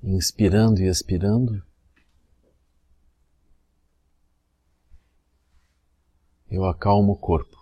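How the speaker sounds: measured meditation phrase with long pauses; spoken meditation cue, evenly paced; guided meditation demo. Shown as a demonstration. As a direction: lead the breathing calmly, leaving long silences. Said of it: "assim, a gente diz".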